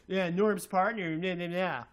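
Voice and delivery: half-hearted brush-off mumble; mock mumbling critic. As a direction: imitate him grumbling at the floor. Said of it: "you can't even say my name".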